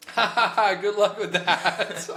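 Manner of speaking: high, loud, slow mock cackle; mocking laugh. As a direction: laugh at the dreamer. Coworkers laughing at him.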